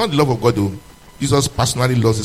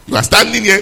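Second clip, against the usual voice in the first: accusing shout; 5 semitones higher, 6 dB louder than usual. Real, not acted. Preacher accusing the congregation.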